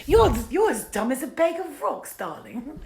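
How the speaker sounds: high, loud theatrical "darling" voice; hammed-up acting take. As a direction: play it as a grand, high-pitched diva. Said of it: "I will try every different kind of acting".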